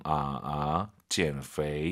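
low, slow 减肥 with the third tone dipping; demonstrated tones. Shown as a demonstration. Teacher nags listeners about tones, 减肥 slow with a low third tone. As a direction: draw out 减肥 slowly and low so each tone is heard. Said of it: "이게 들려야죠".

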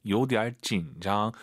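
slow, measured "요, 디알紧张"; teacher's careful tone model of "요, 디알紧张"; tone demonstration. Shown as a demonstration. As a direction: say "요, 디알紧张" slowly, without raising 紧. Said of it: "지는 올라가면 안 되죠".

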